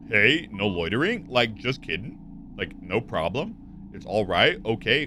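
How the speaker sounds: put-on Valley Girl, every sentence ending as a question; Valley Girl accent. Shown as a demonstration. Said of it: "end every sentence as a question".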